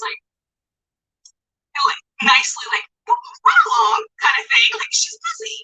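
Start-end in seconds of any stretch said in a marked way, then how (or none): 3.1-4.0 high, brushing-off teacher voice; dismissive teacher. Retold or imitated. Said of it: "I feel like teachers". 4.9-5.6 dismissive teacher. Retold or imitated. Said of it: "I feel like teachers".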